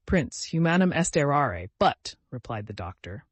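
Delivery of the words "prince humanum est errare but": put-on Latin said with a light French accent; a doctor's Latin in a mild French accent; swallowed R's, a touch of French accent. A narrator's reading. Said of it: "pronouncing the Latin words with a French accent".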